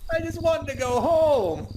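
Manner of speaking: high, loud frightened wail; scared wail. Real, not acted. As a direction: cry out in panic. Jump scare in horror game.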